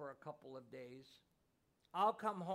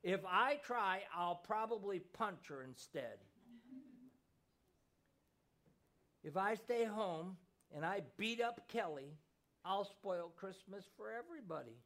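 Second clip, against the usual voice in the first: put-on higher, louder, tearful child's voice; choked-up boy; 4 semitones higher, 5 dB louder than usual. A narrator's reading. Boy sobbing his confession to his mother, higher and louder. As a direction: blurt it through tears like a heartbroken boy. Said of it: "the little boy choked".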